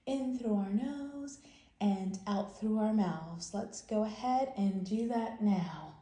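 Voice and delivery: calm, steady relaxation guide; gentle calm-down voice for kids; guided relaxation. Acted. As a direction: talk the children into a calm breath.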